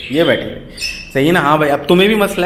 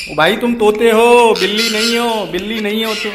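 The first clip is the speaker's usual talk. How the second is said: higher, playful mock telling-off; mock scolding; 7 semitones higher than usual. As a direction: tease the parrot like a scolding elder. Teasing parrot that meows. (तोते को मज़ाक में डाँटते हुए, ऊँची आवाज़ में)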